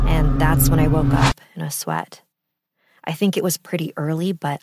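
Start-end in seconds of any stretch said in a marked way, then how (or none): 1.6-2.2 dramatic whisper. Acted. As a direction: breathe it out in a hush. Dramatic climax of dream story.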